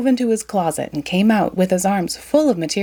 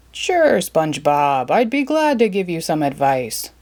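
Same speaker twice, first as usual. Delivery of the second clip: Mister Krabs voice. Acted.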